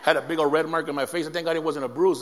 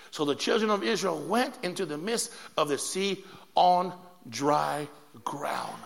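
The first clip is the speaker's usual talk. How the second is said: slow, measured reading with phrase breaks; scripture reading; 3 semitones lower, slower than usual. Acted. Preacher reading the Bible to the congregation, scripture reading. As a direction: read the verse out slowly and deliberately.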